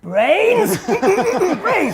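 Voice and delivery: high, loud, drawn-out zombie cry; accusing zombie. Acted. Zombie detective revealing the murder weapon, loudly accusational. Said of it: "and says accusationally".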